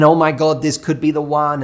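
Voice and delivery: hammed-up giddy infatuation; giddy gush. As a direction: gush like someone newly smitten. Mocking a giddy infatuated friend.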